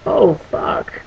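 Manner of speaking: hushed, breathless whisper; whispered oh fuck. Acted. Lois Lane seeing her son's powers, stunned whisper.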